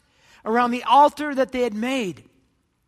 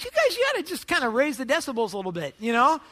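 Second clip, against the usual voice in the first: taunting; 4 semitones higher than usual. Acted. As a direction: needle them with innocent-sounding advice. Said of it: "He began to taunt them".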